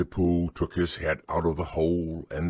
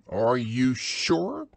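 slow, a touch higher, mildly surprised; 6 semitones higher, 4 dB louder, much slower than usual. A narrator's reading. Rabbit to Pooh, mildly surprised. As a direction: query it in disbelief. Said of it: "still more surprised".

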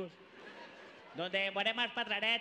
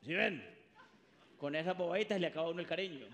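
low, fast muttered complaint; grumbling father; 5 semitones lower, 3 dB quieter, much faster than usual. Acted. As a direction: grumble like a stingy dad. Father grumbling about party.

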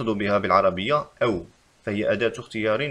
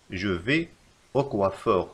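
dictation; much slower than usual. Shown as a demonstration. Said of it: "فالخطأ في هذه الجملة".

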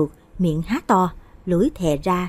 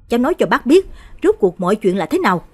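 louder, higher insistent demand; 3 semitones higher, 5 dB louder than usual. Acted. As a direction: grab the boy and press him hard. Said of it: "lôi Long dậy mà hỏi". (bác gặng hỏi dồn dập)

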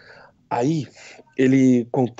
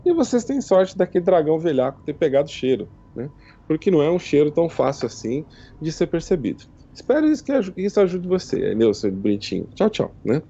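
lightly raised, teasing goddess; 3 semitones higher than usual. Acted. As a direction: speak as the amused goddess Timora, a bit higher. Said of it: "aí ela fala assim". (deusa Timora falando com voz levemente aguda e brincalhona)

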